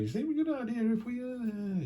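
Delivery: high, fast mock partner; high quick imitation of a partner suggesting something; partner's voice. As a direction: squeak it out like a nagging partner. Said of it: "Your partner going".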